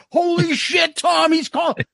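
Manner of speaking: excited shout. Retold or imitated. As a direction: blurt it out, starstruck. Jericho calling him, thrilled.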